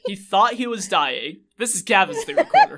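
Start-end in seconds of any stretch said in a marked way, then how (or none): 1.6-2.8 show announcer. Pretend.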